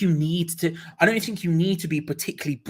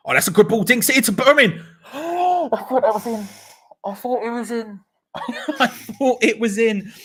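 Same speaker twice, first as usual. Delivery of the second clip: high, loud gasp of disbelief; gasping near-miss shock; 8 semitones higher, 6 dB louder than usual. Real, not acted. Fan watching a volley just miss, shocked gasp. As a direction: shoot up in pitch as if it went in.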